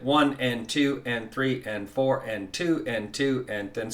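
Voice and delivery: even count along the beat; steady counting. Shown as a demonstration. Teacher counting the beat for students. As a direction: count evenly to the downbeat. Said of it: "you can just start counting along with it".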